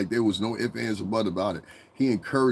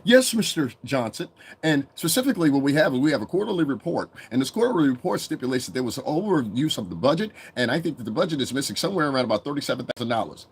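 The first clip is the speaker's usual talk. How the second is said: higher, carefully articulated employee voice; over-articulate help; 4 semitones higher than usual. Acted. The help reporting to Mister Johnson, over-articulate and formal. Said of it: "No, the help articulates".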